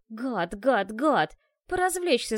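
громче к концу, гневно; выпали со злостью; злость. Acted. Мысли Ашки в гневе. (девушка злится на ящера)

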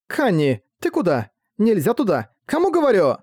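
rising to a high shout; calling out. Acted. Naya calls after runaway dragon.

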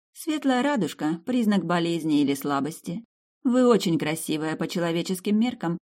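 lightly voiced countess, explaining herself; guileless countess.

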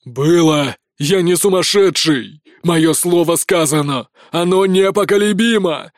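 loud, stubborn insistence; stubborn prince. A narrator's reading. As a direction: plant each word like a stone. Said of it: "стоит на своём Узимир".

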